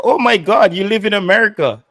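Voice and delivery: mock amazement. Mocking a commenter's boast.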